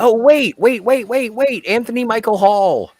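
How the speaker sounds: a fan suddenly spotting the actor on screen; excited realisation. Real, not acted. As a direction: blurt it out as it hits you.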